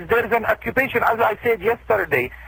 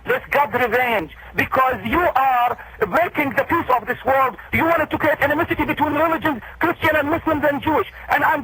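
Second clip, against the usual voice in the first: pitched up, solemn outrage, slowing on God's revenge; indignant; 3 semitones higher than usual. Real, not acted. Imam to the accusing host, indignant and pitched up.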